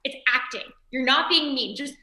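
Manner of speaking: imitated insistent sister, rising to a loud plea; exasperated coaxing. Sister urging her boyfriend to yell, exasperated coaxing. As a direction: coax him, then push hard on the request. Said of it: "And she says, "Kyle, it's acting".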